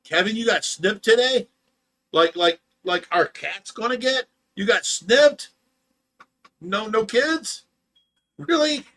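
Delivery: high, loud disbelieving questions; surprised. Real, not acted. Reacting to a viewer who got snipped, surprised.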